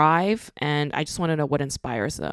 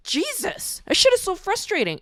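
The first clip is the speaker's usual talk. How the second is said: exasperated outburst; 14 semitones higher than usual. Real, not acted. Vlogger venting to listeners about timid artists, exasperated. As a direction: pitch jumps way up in real frustration.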